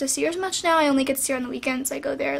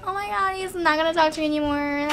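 mock-weepy, stretching out the last word; imitated crying. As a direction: act out your own tearful panic, half-hearted. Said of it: "like, crying, like, thinking that I".

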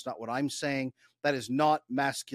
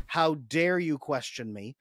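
mock angry teenager; slower than usual. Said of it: "they're an angry teenager".

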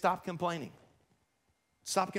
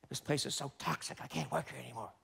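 whiny complainer; 6 semitones lower, 9 dB quieter than usual. Acted. Voicing complaining employee.

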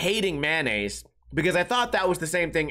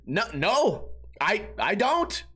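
normal talking voice

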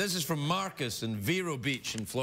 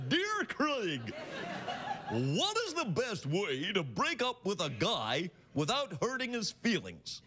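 put-on comic French accent with a drawn-out opening; 3 semitones higher than usual. Host reading Amanda's breakup question from Montreal, French accent. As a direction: read it like a stage Frenchwoman or Frenchman. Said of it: "I'll do it in a French accent".

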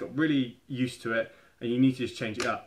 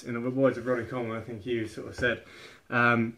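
normal talking voice

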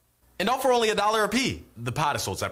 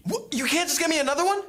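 high indignant; 10 semitones higher than usual. Acted. Customer shocked at fee.

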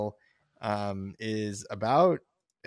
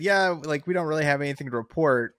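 mock sheriff; 5 semitones higher, 8 dB louder than usual. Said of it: "He said".

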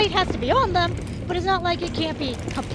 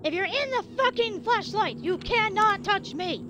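defiant taunt; 4 semitones higher than usual. Real, not acted. Taunting monsters from flashlight.

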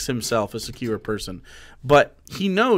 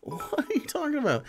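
high-pitched, baffled disbelief; incredulous scoff; 6 semitones higher than usual. Real, not acted. Streamer reacts to the clip's family claim, incredulous. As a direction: question it in exasperated amazement, pitch swooping up.

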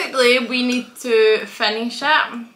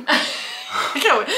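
laughing; 2 semitones higher, much slower than usual. Real, not acted. Nervous about spicy challenge.

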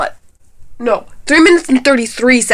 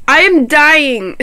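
mock dramatic; 3 semitones higher, slower than usual. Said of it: "No, I'm kidding".

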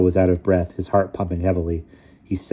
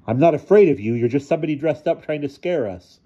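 put-on high-pitched, defiant child voice; boyish bravado; 8 semitones higher, 4 dB louder than usual. A narrator's reading. Ludwig defies the dressed-up figure, high bravado. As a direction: put on a brave front. Scared boy defies the apparition.

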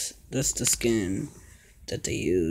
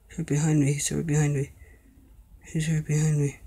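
scared; 4 dB louder, faster than usual. Real, not acted. Chased, repeating in panic.

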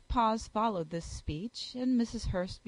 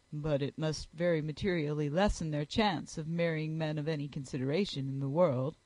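a touch lower, proud and measured; lightly lowered gentleman's voice, disdainful; haughty Darcy; 5 semitones lower than usual. Acted. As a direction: dismiss their prospects coolly.

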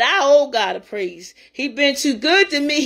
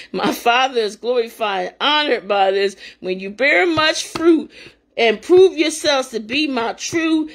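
scripture reading. Acted. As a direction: read the verses with reverent weight. Reads scripture.

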